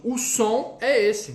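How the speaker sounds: slowed teacher phrase; slow it down to show; teacher explaining the sound slowly; slow explanation. Shown as a demonstration. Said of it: "Ô, ótimo".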